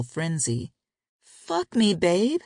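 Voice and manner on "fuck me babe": pleading. A narrator's reading. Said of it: "she pleaded".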